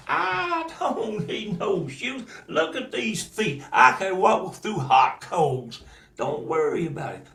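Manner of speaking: put-on high, slow little girl voice; a girl making light of bare feet. Daughter brushing off her father's worry, high and slow.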